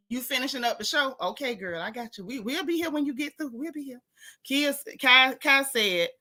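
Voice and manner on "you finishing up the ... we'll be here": soft aside. Real, not acted. Aside to Cheryl off-mic.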